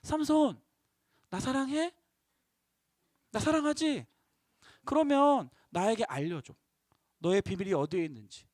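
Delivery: soft, hushed coaxing plea; lightly voiced temptress cooing for a secret; coaxing Delilah. Delilah softly coaxing Samson for his secret. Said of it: "마치 이것과 같아요".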